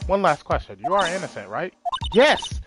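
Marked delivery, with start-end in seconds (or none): 2.1-2.6 eager yes. Acted. Eager answer to the question.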